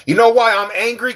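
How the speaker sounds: high-pitched, worked-up question; mock-angry rant. Streamer blaming a Raiders fan, mock-angry outburst. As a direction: launch into a playful grievance.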